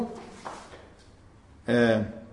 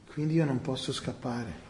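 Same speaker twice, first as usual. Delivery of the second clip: quiet; 6 semitones lower, 12 dB quieter than usual. Shown as a demonstration.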